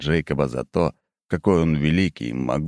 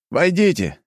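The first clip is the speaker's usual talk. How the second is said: reluctant call; 12 semitones higher, 4 dB louder than usual. A narrator's reading. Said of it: "неохотно выкрикнул".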